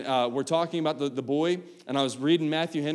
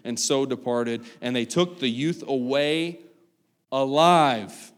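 scripture reading. Acted. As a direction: read the passage with weight. Reads scripture aloud.

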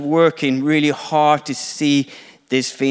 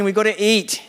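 a touch of flustered, higher impatience; nagging, exasperated plea, pitched up; annoyed Martha; 6 semitones higher than usual. Acted. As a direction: pester Jesus like a harried hostess in the kitchen. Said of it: "I can feel the annoyance of Martha".

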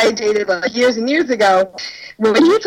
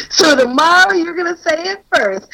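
put-on drunk; 6 semitones higher than usual. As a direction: play it slightly drunk and bossy. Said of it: "drunk, so I'm like".

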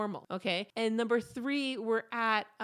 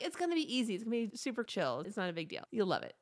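casual, coaxing reassurance, tapering softer; trying to sell it; 4 dB quieter, faster than usual. Retold or imitated. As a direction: talk a friend into it, playing it down. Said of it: "that's me trying to sell it".

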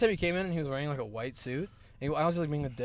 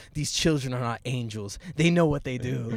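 quoting teacher; 3 semitones lower than usual. Retold or imitated. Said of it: "he goes".

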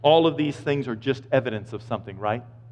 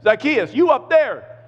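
much higher, louder call up to a man in a tree; 13 semitones higher, 6 dB louder than usual. Retold or imitated. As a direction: shout up warmly to him. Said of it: "Jesus is at the bottom of that tree going".

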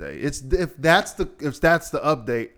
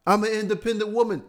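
mocking quote; 9 semitones higher, faster than usual. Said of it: "mocking a post".

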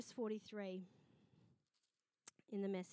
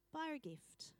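soft, breath-only whisper; hushed instruction; whispered prompting; 5 semitones higher, 4 dB quieter than usual. Acted. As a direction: whisper it like an inner nudge. God's quiet prompting, acted out.

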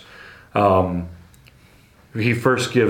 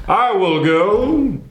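eager volunteer; 9 semitones higher, much slower than usual. Retold or imitated. Eager volunteer grabbing the mic.

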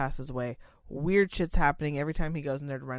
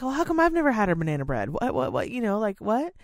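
indignant boss; 5 semitones higher, 3 dB louder than usual. Retold or imitated. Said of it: "She was like".

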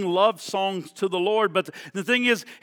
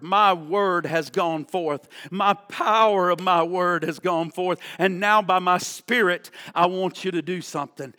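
voice of God. Acted. Voicing God, quiet and low.

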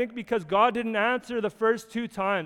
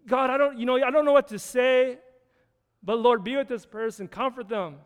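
halting, slightly raised acted prayer, easing down at the end; stumbling prayer; 3 semitones higher than usual. Preacher models praying for someone in tragedy, stumbling through it. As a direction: feel your way through a mock impromptu prayer. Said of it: "just stumble through a prayer".

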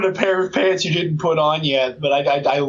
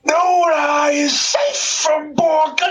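horror trailer voice; 9 semitones higher, much slower than usual. Pretend. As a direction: drag it out like a movie trailer. Parody trailer line.

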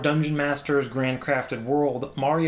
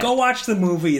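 louder, higher brush-off; playfully exasperated, shooing critics away; mock exasperation; 6 semitones higher, 5 dB louder than usual. Acting actor's exasperated reply to critics.

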